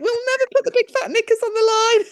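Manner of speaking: high, loud mock vow; retold hilarity. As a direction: imitate a son cracking up, pitched right up. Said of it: "he's just laughing his head off".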